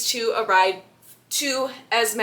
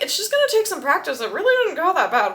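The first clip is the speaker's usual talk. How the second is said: higher, fast and upbeat; breezy Bella; 5 semitones higher, faster than usual. Retold or imitated. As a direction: chirp it out to reassure him. Bella cheerfully brushing it off.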